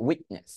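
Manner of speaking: "উইটনেস" with an unreleased T; stopped T. Shown as a demonstration. Teacher giving the model word, stopped T. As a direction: catch the T, then release into "নেস" of "উইটনেস". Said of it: "এভাবে বল".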